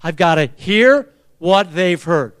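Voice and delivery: slow, measured line to repeat; spaced out for a crowd to echo; congregational prompt. Shown as a demonstration. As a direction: lead them word by word. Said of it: "Say it".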